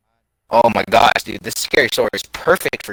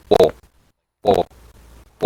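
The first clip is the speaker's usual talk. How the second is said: imitated "bo" noise; 3 semitones lower, 3 dB louder than usual. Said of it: "in a deep masculine voice".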